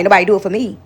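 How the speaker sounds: mocking a bitter person; bitter quote. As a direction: sour complaint, lightly imitated. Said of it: "with your bitter self".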